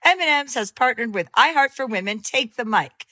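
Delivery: upbeat sponsor read. Acted. Host reading a sponsor ad, upbeat. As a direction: sell it warmly.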